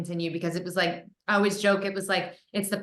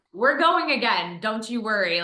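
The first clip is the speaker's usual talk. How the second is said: louder, higher mock-confident promise; cheerful hammed-up reassurance; eager reassurance; 4 semitones higher, 4 dB louder than usual.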